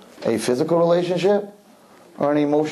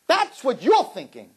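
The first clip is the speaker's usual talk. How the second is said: ordinary talk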